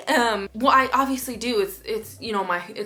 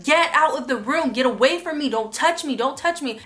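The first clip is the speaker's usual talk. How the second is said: mild mock yell, raised and higher pitched; retold yelling; 4 semitones higher, 3 dB louder than usual. Yelling at partner to leave the room, imitated and half-held-back. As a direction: re-enact a heated telling-off, each order pushed out. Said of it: "I'll start yelling".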